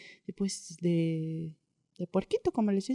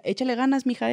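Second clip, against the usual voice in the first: imitated northern accent; 4 semitones higher than usual. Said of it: "así me decía, con su acentito".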